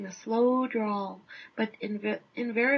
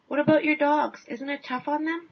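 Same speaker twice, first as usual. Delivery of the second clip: pushy reporter; 4 semitones higher, 4 dB louder than usual. Retold or imitated. Reporter pushing the musher.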